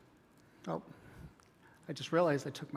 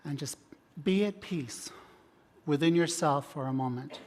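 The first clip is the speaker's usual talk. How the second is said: guided meditation. Acted. Leads relaxation and meditation.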